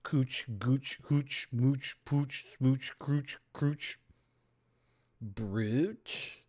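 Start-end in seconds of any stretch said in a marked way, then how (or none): 0.0-4.0 ooch rhymes chanted, oo as in pooch. Shown as a demonstration. Testing which sounds right, oo rhymes. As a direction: try the oo sound in a run. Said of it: "is it brooch or brooch?".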